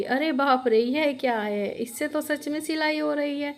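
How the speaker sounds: rising pitch in acted wonder; mildly acted astonishment; amazed. Old woman amazed by magic machine.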